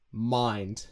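mind started further back in the throat; back-of-throat vowel in mind; Irish-style mind. Shown as a demonstration. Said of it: "start a little bit more back in the throat".

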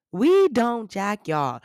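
slow, drawn-out playful rejection; mock dismissal. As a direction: stretch each word to disown them. Mock rejection of Long Islanders.

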